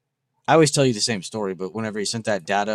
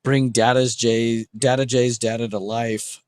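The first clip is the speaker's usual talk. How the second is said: slow dramatic; slower than usual. Acted. Grand slogan for the data post.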